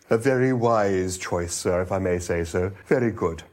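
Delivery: a hint of a gurgling, obsequious waiter; mellow gurgle. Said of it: "said with a mellow gurgle".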